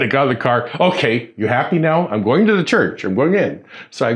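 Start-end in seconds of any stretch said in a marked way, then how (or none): 0.8-3.6 mildly exasperated giving in; understated huffy surrender, acted out; retold mad compliance. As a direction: re-enact grudgingly giving in, a touch annoyed. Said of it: "I was mad".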